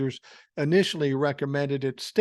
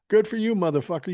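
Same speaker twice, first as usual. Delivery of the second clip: sarcastic jab; 5 semitones higher, 4 dB louder, faster than usual. Real, not acted.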